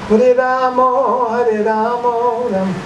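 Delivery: high, slow Bengali-accented chanting. Shown as a demonstration. Teacher imitating Bengali devotees chanting, singsong Bengali accent. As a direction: draw out the vowels in a Bengali accent. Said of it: "That's Bengali".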